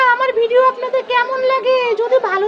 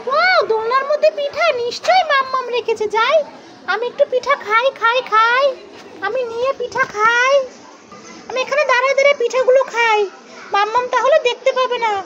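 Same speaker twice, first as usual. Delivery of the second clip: put-on lightly raised, playful kid's voice; sneaky child voice; 3 semitones higher than usual. Mother plays child finding cake in the cradle, lightly higher sneaky voice. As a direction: sound like a child sneaking snacks.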